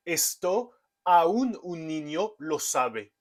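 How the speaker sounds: "Esto aún un niño lo sabe" in clear Spanish, "aún" as two syllables a-ún; Spanish example sentence. Shown as a demonstration. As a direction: read the Spanish example like a native. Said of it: "dans la phrase".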